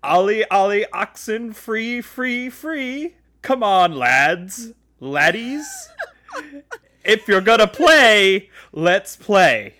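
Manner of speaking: imitated Aussie taunt; Australian accent. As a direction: put on a rough attempt at Australian. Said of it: "I want to say Australian accent".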